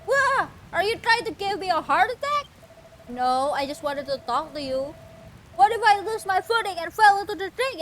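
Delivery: jump, then needle them; a hint of a cranky startled character; startled grouch. Voicing startled NPC.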